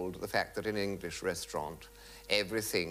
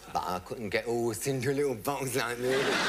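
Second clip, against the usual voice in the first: laughing. Retold or imitated.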